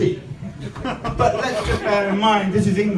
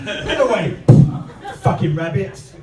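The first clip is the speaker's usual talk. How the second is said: mock scolding the pet; 3 semitones higher than usual. Blaming the pet rabbit.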